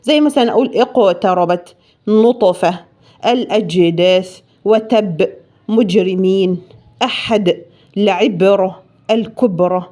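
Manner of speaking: echoing qalqala on each stopped letter; qalqala examples. Shown as a demonstration. Teacher demonstrating qalqala to students. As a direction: bounce the sukun letters in اقتربت, نطفة, الأجداث, وتب, مجرمين, أحد, العبرة, الكبرى. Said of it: "يعني القاف والطاء والباء والجيم والدال".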